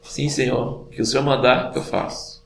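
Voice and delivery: soft, meek compliance; passive obedience. Acted. Passive servant answering the Lord, meekly obedient. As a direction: trail off softly, like an obedient servant. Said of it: "que não era passiva".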